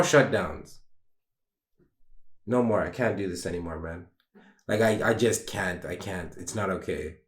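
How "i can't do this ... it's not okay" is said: quiet, near tears; struggling to hold it together; real quiet sadness, voice dropping away; tearful. Real, not acted. Breaking down about letting people down.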